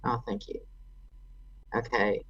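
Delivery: normal talking voice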